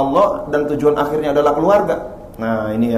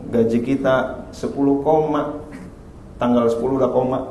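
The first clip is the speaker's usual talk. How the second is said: softer, lower, patient husband; gentle husband; 3 semitones lower, 5 dB quieter than usual. Retold or imitated. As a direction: explain it gently to your wife. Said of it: "Apa kata suaminya?". (suami lembut dan sabar)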